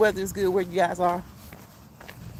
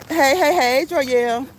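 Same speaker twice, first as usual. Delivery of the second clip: excited greeting; 3 semitones higher, 5 dB louder, slower than usual. Real, not acted. Greeting a viewer who joined.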